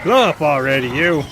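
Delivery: loud, annoyed call at an enemy; yelling at a stubborn enemy; frustrated yell. Real, not acted. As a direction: snap it at the thing that won't explode.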